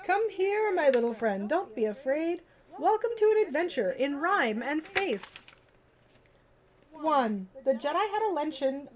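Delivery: lively storybook read-aloud; reading to children. Acted. Streamer reading a bedtime book to viewers, lively storybook voice.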